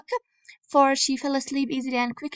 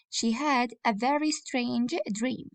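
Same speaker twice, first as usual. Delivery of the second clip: dictating. Shown as a demonstration. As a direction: read it slowly for copying. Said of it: "copy this sentence".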